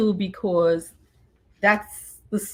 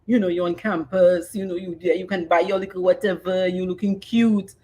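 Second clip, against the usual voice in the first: ordinary talk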